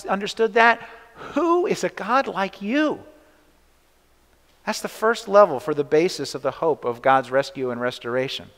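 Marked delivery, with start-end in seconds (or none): 1.3-3.0 higher, awed proclamation; proclaiming in wonder. Shown as a demonstration. Preacher showing the congregation how to proclaim, awed. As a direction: let the question ring out in amazement. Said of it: "lead you to proclaim".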